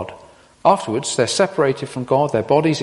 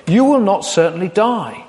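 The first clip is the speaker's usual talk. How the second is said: barely hint at the snake's voice; snake line; 4 semitones higher than usual. Shown as a demonstration. Preacher reading the snake's lie to Eve, lightly sly. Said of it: "tempting to say this with a sort of a voice".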